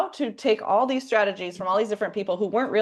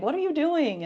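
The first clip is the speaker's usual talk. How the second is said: higher, incredulous "what are you doing"; mock incredulous husband; 10 semitones higher than usual. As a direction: play up his disbelief, pitched high. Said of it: "and he's like".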